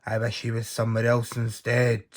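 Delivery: loud booming giant chant; roaring giant. Acted. Giant roaring to sniff out Jack, booming chant. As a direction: boom out the rhyme like a huge giant.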